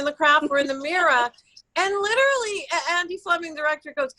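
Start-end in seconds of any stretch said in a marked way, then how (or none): 0.5-1.3 "mirror" said as "mirra"; "mirror" ending on an open New York uh. Shown as a demonstration. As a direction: drop the last R of "mirror". Slips back into New York accent.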